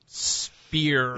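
a second try at American; American accent. Pretend. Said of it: "That's actually pretty good".

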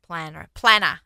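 Australian "planner", r dropped; Australian accent. Shown as a demonstration. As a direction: say "planner" like an Aussie, no r at the end. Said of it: "That's how we say it in Australian accent".

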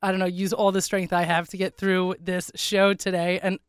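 raspy sick voice; rough, congested throat; hoarse voice. Real, not acted. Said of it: "I actually do sound this bad".

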